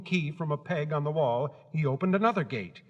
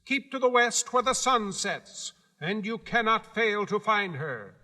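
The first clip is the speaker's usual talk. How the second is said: high, proud little gatekeeper; Guardian of the Gates; 7 semitones higher, 3 dB louder than usual. Acted. Gatekeeper laying down the rules to Dorothy, high and proud. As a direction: announce your post with self-importance.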